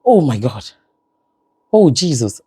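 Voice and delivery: mild mock shout, falling pitch; imitating daughter's exclamation. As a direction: cry it out like an exclaiming child, lightly. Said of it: "Why are you shouting, 'Jesus, Jesus'?".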